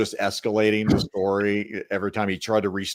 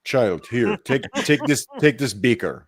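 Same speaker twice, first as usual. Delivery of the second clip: put-on heavy Russian accent menace. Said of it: "in Russia".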